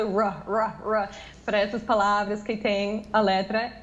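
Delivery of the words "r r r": country Brazilian R, pulled long; caipira R. Shown as a demonstration. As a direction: hold a retroflex r r r. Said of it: "pensa nesse R bem caipira, bem puxado".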